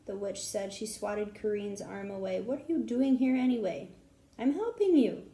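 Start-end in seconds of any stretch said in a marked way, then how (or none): 2.4-3.9 put-on cranky old witch. Old witch scolding the children. 4.4-5.3 loud, high angry snap; snapping back. Acted. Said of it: "Kareen snapped".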